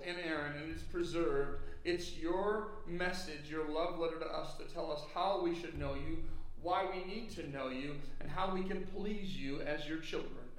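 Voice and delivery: earnest pulpit prayer; public prayer. Real, not acted. Pastor prays over his hearers before the message, prayerful. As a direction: pray aloud for the congregation, measured and sincere.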